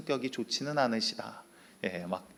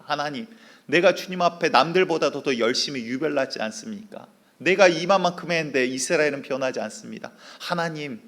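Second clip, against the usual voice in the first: raised, pleading prayer; despairing complaint; 3 semitones higher, 5 dB louder than usual. Acted. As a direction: pour out frustration to God. Elijah complaining to God.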